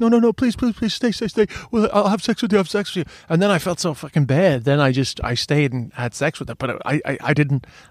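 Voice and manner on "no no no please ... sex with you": acted, high, rushed, tearful pleading sob. Retelling walking away, the speaker imitates a woman crying in front of them. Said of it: "she's like crying in front of me like".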